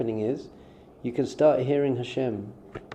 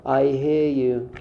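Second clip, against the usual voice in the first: slow validating; much slower than usual. Shown as a demonstration. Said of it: "to be able to just say".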